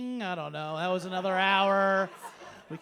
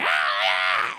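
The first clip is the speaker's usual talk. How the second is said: proud cat voice; 11 semitones lower, 8 dB louder than usual. Retold or imitated. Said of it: "like a cat that brings".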